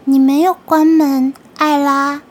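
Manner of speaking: high, loud, rasping creature; raspy grating voice. Acted. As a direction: taunt her in a harsh rasp. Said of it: "我又听见那沙哑刺耳的声音". (沙哑刺耳的怪物声音)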